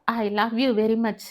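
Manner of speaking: drawn-out, lingering declaration of love; unhurried romantic confession; slow love declaration. Acted. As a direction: say it very slowly, savouring each word. Lover's declaration after long pause.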